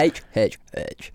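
same H, dropping in pitch. Shown as a demonstration. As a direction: say H down a descending scale. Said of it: "No, you just went lower".

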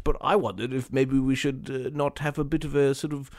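soft hesitant butler voice; a hint of a timid robot butler; polite butler robot. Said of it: "the robot butler pipes up".

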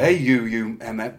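a hint of an Austrian Terminator snarl; Austrian accent. Newspaper guy insulting Bob Orton, in a mild Austrian accent. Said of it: "but in that Austrian accent".

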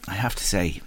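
a real hushed whisper of disbelief; shaken whisper. Real, not acted. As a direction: drop to a stunned whisper. Host hushed after a harrowing interview.

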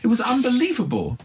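put-on lightly held Irish accent, high. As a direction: keep the Irish accent going. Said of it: "I'm about to do an Irish accent".

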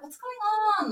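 high, loud puzzled query; imagined suspicion. Retold or imitated. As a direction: voice a girlfriend smelling something odd. Host voices a suspicious girlfriend's thought.

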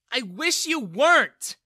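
loud, high, slow bitter shout; furious yell. Acted. Daughter yelling at her father, bitter. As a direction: hurl it at him. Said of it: "Bella yelled at him".

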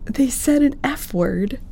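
high shocked whisper-gasp. Retold or imitated. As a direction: gasp it out, scandalized. Mimicking friend's shocked reaction.

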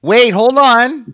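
surprised. Real, not acted. Stopping the spin in surprise.

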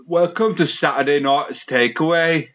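put-on Geordie TV host; Geordie accent. Shown as a demonstration. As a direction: announce it in a mock Geordie accent. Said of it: "Can you do a Geordie accent".

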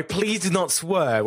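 lightly imitated TV host accent; AJ Odudu. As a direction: quote the presenter's warning, drawn out. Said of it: "your best A G Odudu impression".

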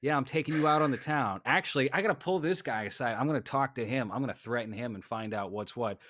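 lightly voiced swaggering husband; mock brash husband. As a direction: show off his careless date-night bravado. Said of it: "he's like".

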